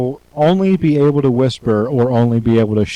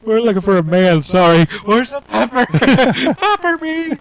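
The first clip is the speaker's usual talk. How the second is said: put-on high girly voice; 10 semitones higher than usual. Playing women after the sneeze.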